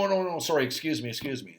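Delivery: lightly voiced kid caught out by coach; flustered kid apologising. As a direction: imitate a kid backpedalling fast.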